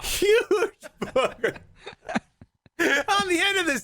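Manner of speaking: can't get it out for laughing. Real, not acted. Repeating the punchline to his friend, laughing slowly. Cracks up retelling it.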